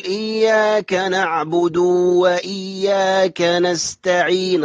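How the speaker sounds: slow chant, نعبد stretched to a long oo; over-lengthened damma. Retold or imitated. Teacher mimics wrong reading, long oo ending نعبد. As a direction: draw نعبد out into "naʕbudoo". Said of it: "يمدها مد التمكين فيجعلها واو جماعة".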